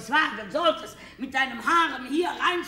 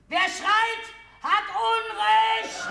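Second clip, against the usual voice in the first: much higher, louder, slow and laughing; ironic shout; 10 semitones higher, 4 dB louder, slower than usual. Acted. Wife shouting at her husband that whoever shouts is wrong, laughing shout. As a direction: yell the rule that yellers are wrong.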